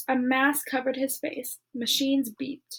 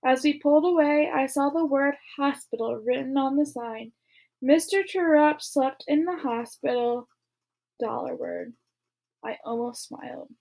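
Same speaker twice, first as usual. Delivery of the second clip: reading a novel aloud to a class; steady read-aloud narrator voice; story narration. A narrator's reading. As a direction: tell the story to listening students. Reads novel chapters aloud.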